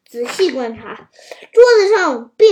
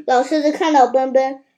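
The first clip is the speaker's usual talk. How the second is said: ordinary delivery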